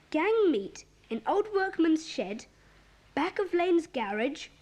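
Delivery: slow, measured note reading; reading aloud. Acted. Reading the found note to friends, slow reading aloud. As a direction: read it out deliberately, phrase by phrase.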